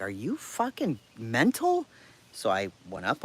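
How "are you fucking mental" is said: high, loud, incredulous angry shout; angry yell. Retold or imitated. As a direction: snap it at the officer in outrage. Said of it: "I'm like".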